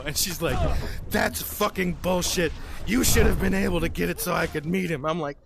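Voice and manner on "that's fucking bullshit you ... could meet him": angry complaint. Retold or imitated. Ex-wife berating him in hotel.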